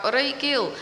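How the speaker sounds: imitating a singer greeting someone mid-song; quick hello dropped into the song. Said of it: "Just mid-song".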